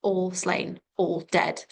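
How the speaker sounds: "all slain, all dead" in single, separate beats; monosyllabic. Shown as a demonstration. Teacher showing the monosyllabic nature of that line, separate beats. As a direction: give each word of "all slain, all dead" its own weight. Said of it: "the monosyllabic nature of that line".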